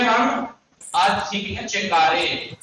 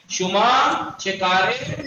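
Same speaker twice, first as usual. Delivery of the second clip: slow model phrase; 3 semitones higher, much slower than usual. Shown as a demonstration. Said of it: "تو کیا کہتے ہیں ہم؟".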